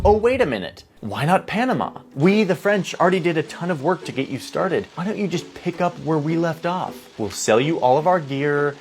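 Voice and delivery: giddy. Retold or imitated. French engineer pitching Panama to Congress, all giddy. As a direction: act out a giddy schemer having a bright idea. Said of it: "He's, like, all giddy".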